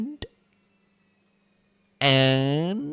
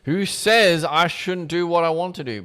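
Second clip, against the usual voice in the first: put-on pleading teen girl; 6 semitones higher, 4 dB louder than usual. Teen girl pleading her case.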